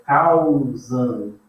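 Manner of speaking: "causam" drawn out, am as one nasal sound; nasal ending shown. Shown as a demonstration. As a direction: stretch "causam", holding the nasal am. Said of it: "ele vai ser um som só". ("causam" alongado, am final num som nasal só)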